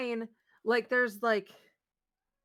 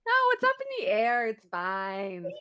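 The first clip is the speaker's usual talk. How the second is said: breezy denial; 3 semitones lower than usual. Retold or imitated. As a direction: brush it off cheerfully. Voicing Barbie's breezy denial.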